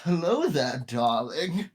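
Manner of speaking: campy drag queen. Acted. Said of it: "Mettaton from Undertale".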